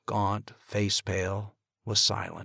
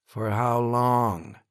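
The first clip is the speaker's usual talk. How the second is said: slow, cold question; 4 semitones higher, 6 dB louder, much slower than usual. A narrator's reading. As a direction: chill the words. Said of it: "his voice was getting cold".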